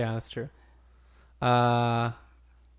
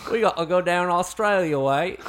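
put-on Australian accent; 3 semitones higher, 6 dB louder than usual. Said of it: "just immediately fell apart".

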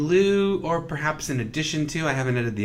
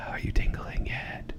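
ASMR whisper; 3 dB quieter than usual. Pretend. ASMR parody.

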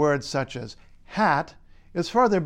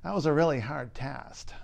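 Cali-Canada accent with TEST lowered toward "tast"; California-Canada accent; 5 dB quieter than usual. Shown as a demonstration. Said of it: "test like tast".

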